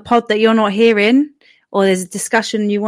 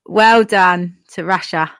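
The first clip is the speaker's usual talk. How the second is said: attempted Cockney accent; slower than usual. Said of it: "Do it in your best British accent".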